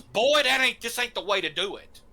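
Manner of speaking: furious scolding. Acted. Angry woman scolding the boy who damned his soul, loud and high. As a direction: slap him with words after the slap. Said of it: "And she goes".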